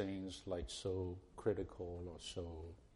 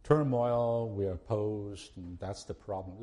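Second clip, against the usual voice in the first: a raised, slowed voicing of a complaining saint, peaking loud on turmoil; mock objector; 8 dB louder, slower than usual. Preacher voicing a saint excusing turmoil, mildly mock-protesting. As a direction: play the defensive churchgoer with his excuse. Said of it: "Well, you say".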